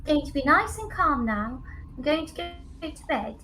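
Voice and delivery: calm the pet down gently; quiet tender reassurance; soft reassuring. Acted. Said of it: "puts her head down to the cage and goes".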